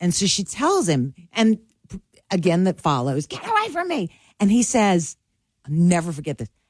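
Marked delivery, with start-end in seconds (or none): 3.3-4.1 very high, soft, squealed screechy shriek. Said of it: "She's screeching".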